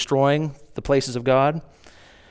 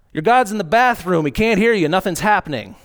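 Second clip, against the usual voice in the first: mocking taunt; 5 semitones higher than usual. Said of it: "the mocking stage and now making fun of them".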